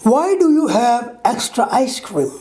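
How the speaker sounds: "do you" as two full words; full form. Shown as a demonstration. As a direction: pronounce "do you" distinctly. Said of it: "full form".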